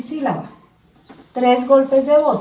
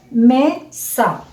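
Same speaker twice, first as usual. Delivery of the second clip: "mesa" in two parts, me... sa; syllable by syllable. Shown as a demonstration. Teacher names the pictured word, syllable by syllable. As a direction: separate "mesa" into two beats. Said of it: "Vamos a dar dos golpes de voz".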